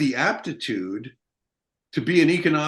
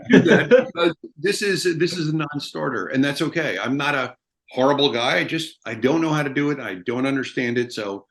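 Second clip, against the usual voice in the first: laughing giving up. Retold or imitated. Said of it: "I'm like".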